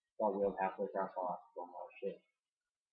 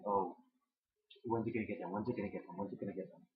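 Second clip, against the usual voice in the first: nagging. Retold or imitated. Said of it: "I was bugging a lot, just saying".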